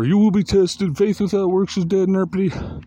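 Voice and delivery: high, loud mock sermon; preachy doom voice, mocked high and loud; fire and brimstone. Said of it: "Some people call it fire and brimstone".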